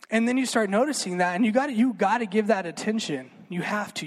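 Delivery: ordinary talk, nothing marked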